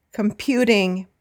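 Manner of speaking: com-PU-ting, stress on the middle syllable; second-syllable stress. Shown as a demonstration. Teacher models "computing" for repeating, stressed on the second syllable. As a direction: say "computing" with the weight on "pu". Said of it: "except computing, recording, and reporting".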